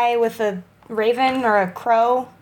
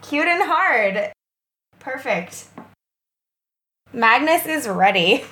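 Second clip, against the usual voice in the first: high joking character voice. Acted. Player answering as Magnus.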